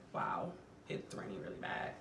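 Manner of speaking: murmured aside under the breath; quiet aside. Real, not acted. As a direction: say it softly to yourself. Aside about weather.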